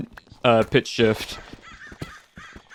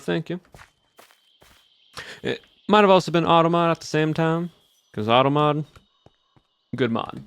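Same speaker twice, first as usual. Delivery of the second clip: put-on Southern accent. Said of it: "I've been practicing this voice for about".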